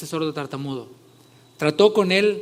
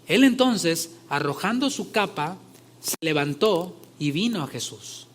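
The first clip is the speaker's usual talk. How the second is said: ordinary talk, nothing marked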